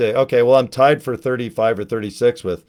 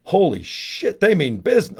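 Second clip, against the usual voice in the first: higher-pitched mock panic; mock alarm; 6 semitones higher than usual. Joking about missionaries on ten speeds, mock alarm. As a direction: act alarmed as rivals close in.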